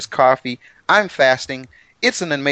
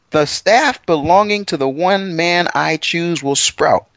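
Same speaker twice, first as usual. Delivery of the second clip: voicing God; 5 semitones higher, slower than usual. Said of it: "he says".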